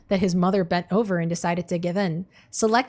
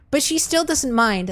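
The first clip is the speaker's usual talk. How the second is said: stifled giggles; 6 semitones higher than usual. Real, not acted. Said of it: "I'm trying not to laugh".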